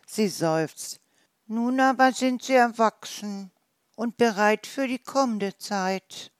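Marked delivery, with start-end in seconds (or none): 1.5-6.3 higher, louder motherly voice; a mother recalling raising young; wild boar mother. Acted. Wild boar mother tells the hedgehog about summer, higher and louder.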